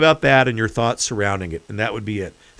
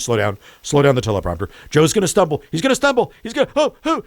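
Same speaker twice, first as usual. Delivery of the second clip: panicky director; 2 semitones higher, faster than usual. Retold or imitated. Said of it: "she just imagined".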